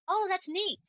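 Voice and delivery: high, sing-song teasing "that's neat"; a husband mimicking his wife's gushing; mock gushing imitation. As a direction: parody her gushing over neat. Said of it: "you've been saying neat, like".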